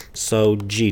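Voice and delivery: "de" said like "djee", the D softened to a J sound; Portuguese "de" pronounced "dji"; Portuguese pronunciation. Shown as a demonstration. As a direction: say "Sou de" with "de" as "jee". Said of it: "D is pronounced, uh, G".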